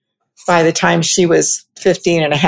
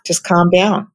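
whisper. Shown as a demonstration. Soothing self-talk whisper.

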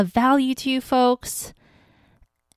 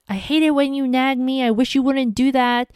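higher, fast, mildly angry outburst; mock angry husband; 4 semitones higher than usual. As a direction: imitate a fed-up husband snapping back. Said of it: "yell or burst and just be super angry".

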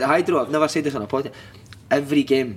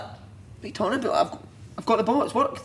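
imitated protest; 8 semitones higher, 4 dB quieter than usual. Player protests to manager, retold.

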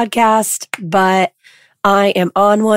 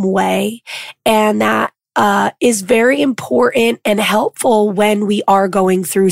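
lost voice, hoarse and rough; talking through a hoarse voice. Real, not acted. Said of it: "I lost my voice".

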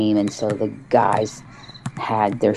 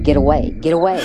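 mild retold scream, raised pitch; 4 semitones higher, 3 dB louder, much faster than usual. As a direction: imitate a possessed boy's repeated scream. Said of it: "he starts screaming".

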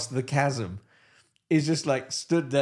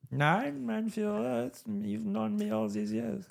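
higher, softer nervous plea; pleading officer; 8 semitones higher, 5 dB quieter, slower than usual. Pretend. Officer denying he is the spy to Hitler, higher timid plea. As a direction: protest your loyalty timidly.

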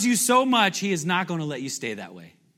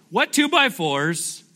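slow deliberate question; slower than usual. Real, not acted.

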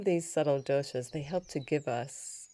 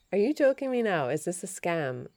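higher, louder disbelief on joking; incredulous; 4 semitones higher, 5 dB louder than usual. Retold or imitated. Challenging the scammer on the phone, incredulous and louder. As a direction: call it out in disbelief.

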